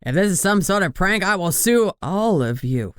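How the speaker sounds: panicked boss trying to sound tough; wavering voice. A narrator's reading. Boss facing the crew by the body, wavering threat. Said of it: "Nelson's voice wavered".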